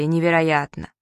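the townsfolk echoing the accountant in a different voice; crowd echoing. A narrator's reading. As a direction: repeat it as the awed passers-by. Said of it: "И все повторяли".

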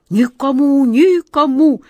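high, loud, eager assurance; high, loud eager vow; eager promise. A narrator's reading. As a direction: blurt the promise out keenly. Eager promise, nodding fast.

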